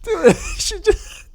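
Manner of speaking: shrieking with laughter at a dumb line; incredulous outburst. Retold or imitated. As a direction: squeal it like you can't believe what you just heard. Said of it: "And I'm just like".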